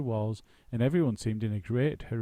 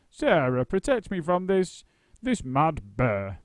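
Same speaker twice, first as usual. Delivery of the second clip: mock fright; 6 semitones higher, 7 dB louder, slower than usual. A narrator's reading. Actor hides behind couch.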